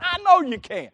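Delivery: high, sure vote of confidence; emphatic retold encouragement. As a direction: insist to the kid that you believe. Retold encouragement before he succeeds.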